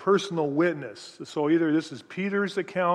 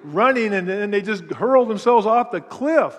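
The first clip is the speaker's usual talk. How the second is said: louder, higher, vivid telling of the stampede; louder and higher as the herd runs off the cliff; animated telling; 3 semitones higher, 7 dB louder than usual. Real, not acted. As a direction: paint the pigs going over the cliff. Pictures pigs hurling off cliff.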